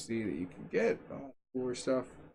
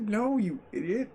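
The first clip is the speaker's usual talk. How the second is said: exasperated retort; 7 semitones higher than usual. Retold or imitated. Gamer answers an imagined panicked viewer with scoffing exasperation. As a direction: brush it off like talking to an idiot. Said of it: "I'm like".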